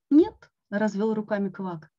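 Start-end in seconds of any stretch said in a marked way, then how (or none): 0.1-0.5 emphatic no. A narrator's reading. Frog answering, spreading arms.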